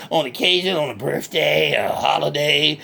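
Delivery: lightly voiced country hick, cheerful and boastful; redneck Bubba. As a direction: play a proud backwoods redneck bragging. Bubba answers.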